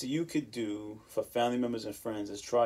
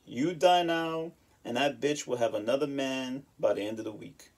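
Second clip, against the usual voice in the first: grandmother's famous quote. Retold or imitated. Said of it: "Remember her famous quote".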